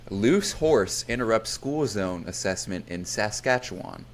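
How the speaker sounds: slow, formal headline read; news anchor voice. Shown as a demonstration. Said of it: "news anchor voice ready".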